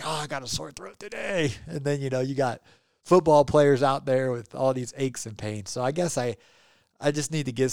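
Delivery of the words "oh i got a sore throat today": hammed-up complaining radio guy. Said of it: "It's like".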